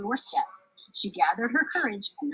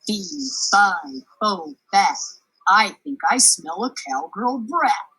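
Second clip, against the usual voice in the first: booming menacing giant chant; loud angry giant; 6 dB louder than usual. Acted. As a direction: roar like a hungry giant. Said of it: "a loud, angry voice called".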